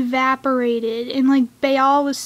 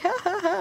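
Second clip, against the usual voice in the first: higher, soft evil chuckle; mock evil laugh; 6 semitones higher, 7 dB quieter, faster than usual. Fan imitating the villain's creepy laugh, mock evil. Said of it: "that evil laugh".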